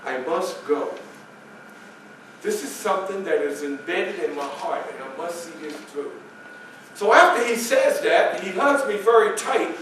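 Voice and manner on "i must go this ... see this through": whispered farewell. Acted. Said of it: "he whispers in my ear".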